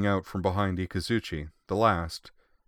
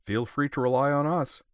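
put-on high, cheeky girl; playful with a wink; 7 semitones higher than usual. A narrator's reading. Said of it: "Ikazuchi added with a wink".

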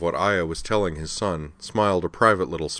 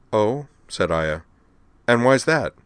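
put-on higher, forceful veteran officer urging the kids on; a brash admiral rallying youngsters; tough admiral Aya; 5 semitones higher, 4 dB louder than usual. Aya voiced.

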